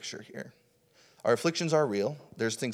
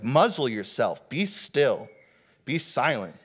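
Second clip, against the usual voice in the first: firm, measured retold orders; three emphatic commands, each set apart; commanding; 3 dB louder, slower than usual. Jesus commanding the storm, serious and firm. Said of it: "He's just commanding the storm".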